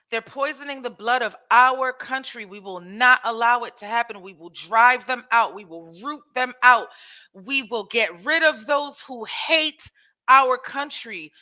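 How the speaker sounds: loud rally-speech Trump imitation, lightly voiced; imitating Trump. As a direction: mimic his rally chant, drive each line home. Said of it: "This is how he talks to them".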